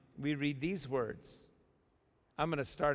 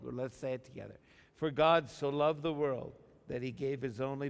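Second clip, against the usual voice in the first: congregation recitation; 2 semitones lower than usual. Real, not acted. Preacher leads church reciting John 3:16 together. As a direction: recite it in unison, deliberately. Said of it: "say it with me".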